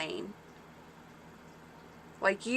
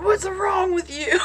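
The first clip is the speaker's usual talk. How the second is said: high, louder, drawn-out imitation; mock-alarmed quote; 10 semitones higher, 5 dB louder than usual. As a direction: imitate someone loudly asking what's wrong. Retold reaction to her scream.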